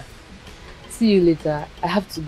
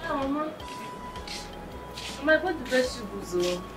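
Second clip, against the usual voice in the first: calling out; 5 dB quieter than usual. Acted. Calling grandmother, no answer.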